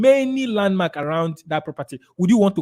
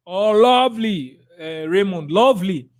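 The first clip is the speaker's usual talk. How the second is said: delighted praise; 2 semitones higher than usual. Real, not acted.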